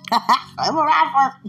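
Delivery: high, loud, slow mock declaration; drawn-out, self-mocking "rapper"; comic repeat. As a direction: stretch RAPPER out high, on the edge of laughter. Comic repeat of her answer.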